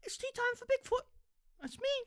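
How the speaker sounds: very high, tiny creature voice; little Bigfoot. Acted. Bigfoot arriving for tea, very high little voice. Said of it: "that's how Bigfoot talks".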